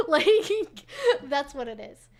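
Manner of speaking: words squeezed out through real laughter; chuckling while finishing the thought; laughing. Real, not acted. Laughing at the meme punchline.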